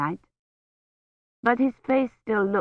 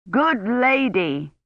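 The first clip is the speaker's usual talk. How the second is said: nearly shouting; 5 semitones higher, much slower than usual. A narrator's reading. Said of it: "nearly shouting".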